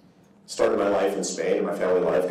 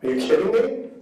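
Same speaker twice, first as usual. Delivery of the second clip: incredulous; 10 semitones higher than usual. Real, not acted. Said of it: "repeated disbelief".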